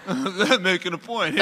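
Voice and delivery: laughing, tough-guy actor impression; celebrity impression through a laugh; Robert De Niro. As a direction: do a film star making a point, amused. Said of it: "That's your Robert De Niro on a podcast".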